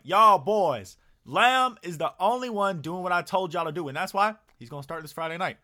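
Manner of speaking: hammed-up coach addressing players; coach yelling at team. Coach calling out the team in the film room, loud mock shout.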